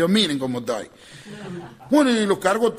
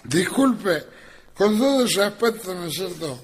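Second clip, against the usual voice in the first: put-on drunk apology; 3 semitones higher than usual. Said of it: "Dice el negro".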